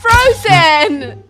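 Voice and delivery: excited shout. Real, not acted. Excited cry of movie title.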